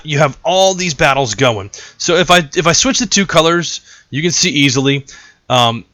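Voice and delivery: ordinary delivery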